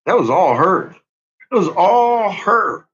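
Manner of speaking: building from firm to loud, slowed on the last one; insistent shout. Real, not acted. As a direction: hammer the point home. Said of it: "repeated insistence building".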